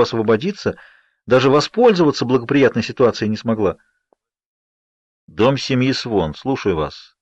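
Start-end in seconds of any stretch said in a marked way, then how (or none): none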